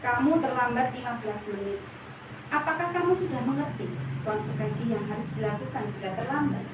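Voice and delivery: flat, formal, unsmiling; cold and businesslike with a late pupil; flat formal monitor. Shown as a demonstration. Monitor teacher stating the rule to a late pupil, flat and cold. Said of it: "nada suara datar, bahasa tubuh yang formal".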